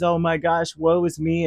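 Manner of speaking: mocking a worrier's lament. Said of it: "and lamenting over".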